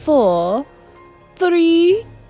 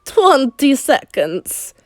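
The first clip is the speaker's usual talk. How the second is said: higher, louder, slow countdown cry; eager witch counting down; 6 semitones higher, 5 dB louder, much slower than usual. A narrator's reading. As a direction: call the seconds gleefully. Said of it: "cried the Grand High Witch".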